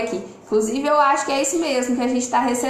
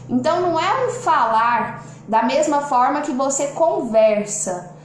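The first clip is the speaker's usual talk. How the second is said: ordinary talk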